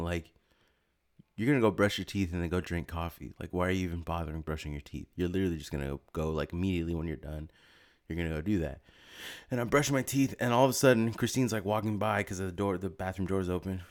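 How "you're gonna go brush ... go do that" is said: softer, low inner voice scolding himself; inner monologue. Retold or imitated. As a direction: mutter it like a thought in your head. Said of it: "in my brain, I was saying".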